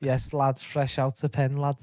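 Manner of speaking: lightly put-on Scouse lad; hint of a cocky Liverpool accent. Playing a lad out of prison, light Scouse. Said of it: "I'll Scouse".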